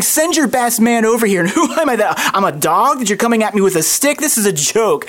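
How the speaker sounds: lightly acted scornful giant; Goliath's contempt. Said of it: "hear the contempt in Goliath's voice".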